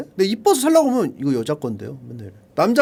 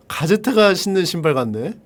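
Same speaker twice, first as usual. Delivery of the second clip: ordinary delivery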